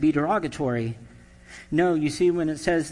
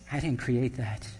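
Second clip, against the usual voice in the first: deadpan God; 3 semitones lower, 5 dB quieter than usual. Retold or imitated. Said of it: "God looks at it and says".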